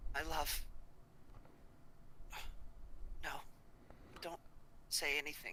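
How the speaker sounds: weak, feeble voice. Voicing a captured woman who looks at Valdonis: weak voice. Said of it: "looks over at Valdonis weakly and just says".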